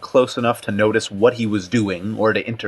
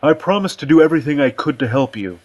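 higher-pitched character voice, defensive; countering retort; 5 semitones higher, faster than usual. A narrator's reading. Aussie answers Richardson's accusation, countering. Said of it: "Aussie countered".

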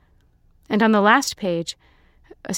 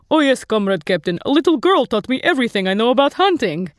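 a hint of a dumb eager recruit, higher; mock reply to captain; 4 semitones higher, 4 dB louder than usual. The speaker imitating himself to the captain, mock earnest. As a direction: lightly play the fool answering an officer.

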